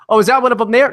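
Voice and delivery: lightly voiced old lady. Old lady pointing out Antifa guy.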